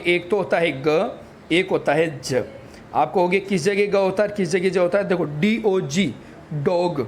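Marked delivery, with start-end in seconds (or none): 0.8-1.2 ग as a short "guh"; letter sound. Shown as a demonstration. Teacher showing G's first sound, ग as "guh". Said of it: "जी के भी दो sound होते हैं". 2.2-2.4 ज as a short "juh"; letter sound. Shown as a demonstration. Teacher showing G's second sound, ज as "juh". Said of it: "जी के भी दो साउंड होते हैं".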